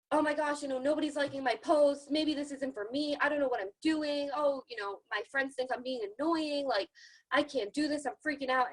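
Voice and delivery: playfully imitating a panicking beginner; mock panicky newbie. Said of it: "you freaked out in seven days".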